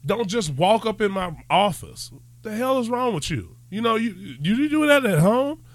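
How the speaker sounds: put-on exasperated parent scolding an intruding kid; indignant parent telling off a child; mock scolding. Scolding a kid who barges in.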